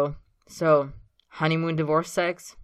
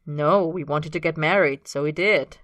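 simple statement; 6 dB louder than usual. Acted. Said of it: "Austin says simply".

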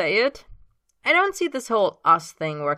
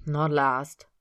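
automatic. Acted. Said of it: "Austin says automatically".

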